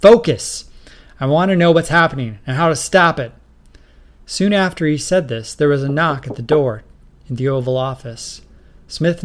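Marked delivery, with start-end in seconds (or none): 0.0-3.3 loud, fast, high order; snapped order. Acted. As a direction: bark it quickly. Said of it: "snapped Smith".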